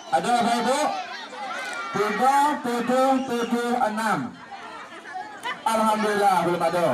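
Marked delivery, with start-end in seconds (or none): 2.0-4.4 number announcer. Acted. Repeating the drawn numbers.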